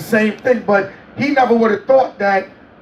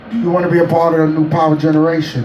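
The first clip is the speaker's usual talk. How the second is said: imitating a singer; 5 semitones lower, much faster than usual. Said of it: "He said".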